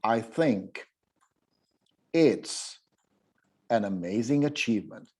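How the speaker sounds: "an amazing achievement" in one breath; phrasing demo. Shown as a demonstration. Teacher models phrase groups, one breath each. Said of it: "let me give you an example".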